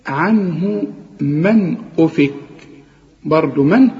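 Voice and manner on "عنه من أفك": عنه with the final ha clearly voiced, slow. Shown as a demonstration. Teacher reciting Quran, clear final ha. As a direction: let the ha of عنه be heard. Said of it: "لازم تبان اله".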